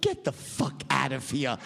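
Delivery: slow, mildly incredulous brush-off; retold disbelief. Banker hearing his plane crashed, slow mock disbelief. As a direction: draw it out, refusing to believe it.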